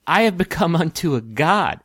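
chuckling at her own godhood; amused. Acted. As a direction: laugh through the boast. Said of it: "amused at her own".

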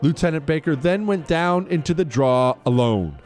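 formal citation read over music; crisp military citation. Acted. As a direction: read it like an official military commendation. Continues reading the citation.

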